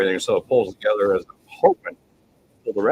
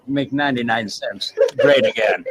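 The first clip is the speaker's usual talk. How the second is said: shouted slogan; 3 semitones higher, 3 dB louder than usual. Acted.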